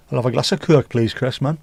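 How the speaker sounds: imitated Geordie lilt; Geordie accent. Echoing accents picked up from footballers, lightly imitated Geordie accent. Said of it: "Like a Geordie".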